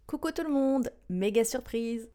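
mock gushing announcement. Pretending to announce the pregnancy online, chirpy. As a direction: gush like a social media post.

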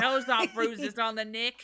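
playful Australian put-on; Australian accent. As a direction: put on a broad Aussie voice. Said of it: "Why are you from Australia now".

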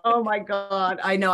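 ordinary talk

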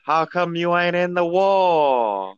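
lightly voiced suspicious hick; old farmer. Farmer NPC questions boy.

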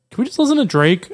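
retold girl's request. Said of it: "she was just like".

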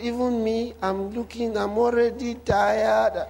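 imitating a worn-out complainer, last words dragged out; mock weary lament, drawn out at the end; mock complaining. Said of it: "They complain of everything".

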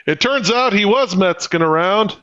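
fast, playful reporter voice; mock news reporter. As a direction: report it like a live correspondent. Mock field reporter bit.

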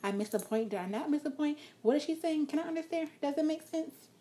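mock confused listener. Shown as a demonstration. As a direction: sound lost and confused. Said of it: "And it's like".

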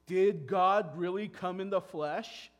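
loud, slow mocking question; deceivers' doubting question. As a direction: sneer the doubt at believers. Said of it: "these deceivers were saying".

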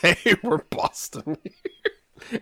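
high, very slow Boston parody; mock Boston accent. Co-host echoing the bad attempt, mock Boston accent. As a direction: stretch out a badly faked Boston accent. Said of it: "do a Boston accent".

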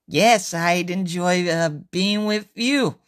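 slow, with a hesitant "uh" before "being with you."; slow, halting reply. Acted. Usuke answering slowly and shyly. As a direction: drag "Yes, I'd enjoy, uh, being with you." haltingly. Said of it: "This is what Usuke heard".

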